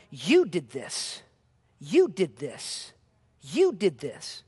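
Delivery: slow, low pointed rebuke. Acted. Peter rebuking the thousands, slow and pointed. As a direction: lean on you each time. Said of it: "he's rebuking them".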